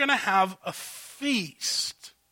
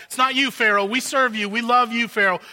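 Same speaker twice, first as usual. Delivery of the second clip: fawning servants; 4 semitones higher, 4 dB louder than usual. Acted. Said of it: "You can see both their outrage and anger".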